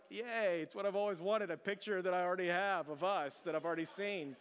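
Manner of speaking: mock-cheerful, sarcastic thanks; sarcastic yay. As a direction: fake delight over a gift he already owns. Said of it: "You jerk".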